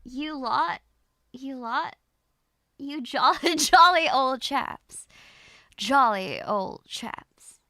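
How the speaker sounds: hammed-up British chap; British accent. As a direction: play at being British, drawn out. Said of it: "How would you say that in British English".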